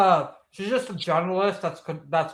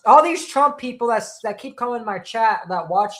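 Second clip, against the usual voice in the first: angry shout; 6 semitones higher, 6 dB louder than usual. Real, not acted. Heated rant about chat trolls.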